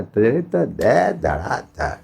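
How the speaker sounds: slow, drawn-out swooping threat; exaggerated storyteller's mimicry of attackers; mock scolding attack. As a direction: act out a thrashing with big pitch swoops. Acting out students thrashing Sandipani.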